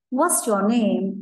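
very slow, careful question; slow teacher demo; slow model question. Shown as a demonstration. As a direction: drag it out for the kids.

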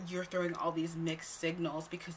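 whispered mock complaint. Mocking the guy's accusation in a whisper. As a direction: hush it as his whiny complaint. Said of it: "He said".

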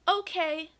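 high, small character voice; meek mouse. A narrator's reading. Mouse gives in to Gus, meek high voice. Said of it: "said Mouse meekly".

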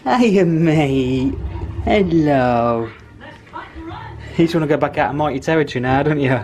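high tender pet voice; cooing at the cat; pet talk. Real, not acted. Greeting returned cat.

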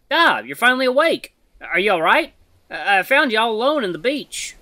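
high, loud worried creature voice; concerned animal character. Acted.

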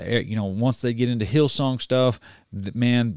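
usual speaking voice

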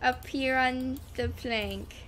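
put-on slow meme pirate accent. Player up on the plank, meme pirate accent. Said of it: "Toaster Dolphin is gaining a meme accent".

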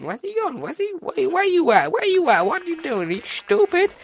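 high-pitched rattled questions; frantic searching. Real, not acted. Player hunting for the vanished sheep, high and frantic.

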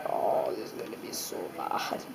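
whispering. Real, not acted. Dreading the wasabi bite.

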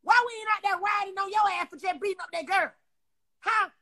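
ordinary talk

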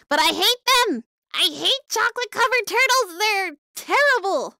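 loud, high-pitched comic rant; hammed-up yelled complaint; mock outrage. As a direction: burst out in exaggerated disgust. Mock outburst about hated candy.

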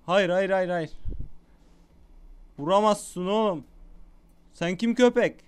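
worked-up gamer yelling; excited shouting. Real, not acted. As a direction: call out hotly in the thick of a fight. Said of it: "Bağırıp çağırıyorum ama çok heyecanlı yani".

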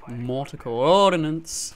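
slow, stretched-out call; slow mock announcement; the voice thing. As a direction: draw the words right out in a put-on voice. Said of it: "I did the voice thing again".

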